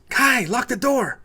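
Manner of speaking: slow, high, loud command; yell. Acted. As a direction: bark the order at Kai. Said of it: "Maria yells".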